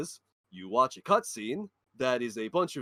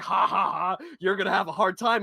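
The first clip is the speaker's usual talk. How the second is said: mocking developers; 4 semitones higher, 4 dB louder than usual. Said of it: "The developers are just like".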